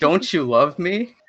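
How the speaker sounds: lightly acted jealous guilt trip; retold scolding. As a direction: plead accusingly, imitating the idol. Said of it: "scolding me for the whole entire time".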